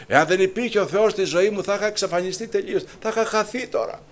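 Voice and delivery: emotional high preaching; fervent. Real, not acted. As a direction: lift it in passion.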